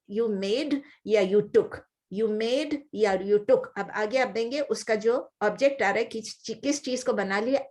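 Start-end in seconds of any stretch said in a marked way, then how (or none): 0.1-1.8 slow, spaced English gloss; slow translation. Shown as a demonstration. Teacher glossing the verse for her class, slow and spaced. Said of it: "repeats translation slowly". 2.1-3.7 slow, spaced gloss repeated. Shown as a demonstration. Teacher repeating the gloss for her class, slow and spaced. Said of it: "repeats translation slowly".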